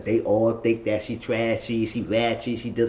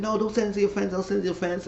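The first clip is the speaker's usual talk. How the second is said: high, softer mimicked pleading; imitating a worried objection, pitched up; acted plea; 9 semitones higher, 4 dB quieter, faster than usual. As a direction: plead in a raised voice. Acted plea not to send video.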